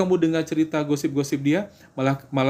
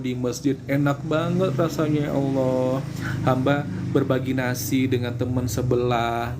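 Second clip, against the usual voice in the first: joyful prayer demo. Shown as a demonstration. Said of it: "kalau pengen doanya cepat dikabulkan".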